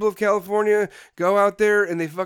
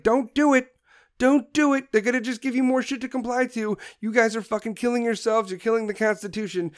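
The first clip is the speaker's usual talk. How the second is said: raised, urgent voice imitating people warning him off; pleading warning; 5 semitones higher than usual. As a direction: beg him to turn back, a notch higher. Voicing people who warn him.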